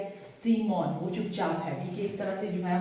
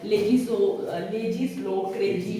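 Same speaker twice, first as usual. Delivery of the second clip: लेजी स्लो called out louder; emphatic mnemonic; 4 dB louder than usual. Shown as a demonstration. Teacher drills the memory phrase for the class, loud. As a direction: punch लेजी स्लो to make it stick. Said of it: "ऐसे ही करना है इसको".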